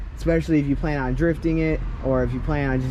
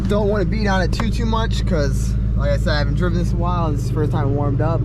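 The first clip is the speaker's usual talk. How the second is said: raised voice; 3 semitones higher, 4 dB louder than usual. Real, not acted. Car owner to viewers beside the running engine, raised voice. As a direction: talk up over the engine.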